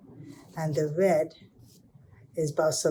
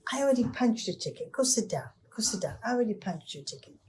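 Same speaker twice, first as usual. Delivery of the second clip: exasperated driver, higher and fast at first; frustrated driver; 5 semitones higher, faster than usual. Acted. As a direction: brush the boy off, fed up. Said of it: "the bus driver got frustrated".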